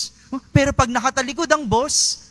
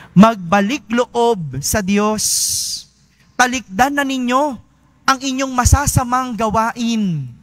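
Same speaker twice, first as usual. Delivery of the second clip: solemn scripture reading. Acted. Quoting Prophet Isaiah.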